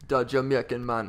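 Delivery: put-on Jamaican accent. Co-host showing the fun voice, mock Jamaican accent.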